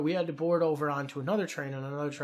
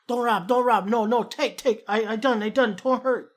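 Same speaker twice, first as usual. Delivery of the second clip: high, loud panicked pleading in broken English; terrified vendor pleading for mercy, loud and high; frightened begging; 6 semitones higher, 5 dB louder than usual. Retold or imitated. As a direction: beg them not to hurt you, voice up high. Vendor begs them not to rob.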